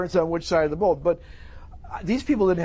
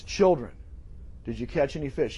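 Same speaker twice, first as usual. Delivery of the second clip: soft, lower-pitched tender question; quiet, caring call; affectionate; 4 semitones lower, 4 dB quieter than usual. Acted. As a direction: ask gently, as to dear children. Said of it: "He's saying this with affection toward them".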